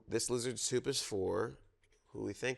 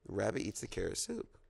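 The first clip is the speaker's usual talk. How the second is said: storytime reading. Acted. Reads zoo picture book aloud.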